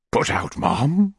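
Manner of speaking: slow, rising, astonished question; indignant exclamation. A narrator's reading. Beadle questions the upset lady, slow astonished exclamation. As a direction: echo her in drawn-out surprise. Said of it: "exclaimed Mister Bumble".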